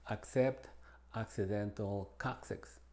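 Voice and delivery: CC in accept, accidental, coccyx said as KS; English CC as KS. Shown as a demonstration. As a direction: clear K then S for the double C. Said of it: "tiene una pronunciación como K S". (doble C como K S)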